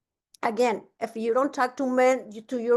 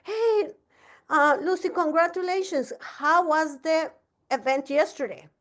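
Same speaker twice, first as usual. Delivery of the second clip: much higher, cheery congratulations; bright mock greeting; 5 semitones higher than usual. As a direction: play the upbeat mentor calling. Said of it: "And I said".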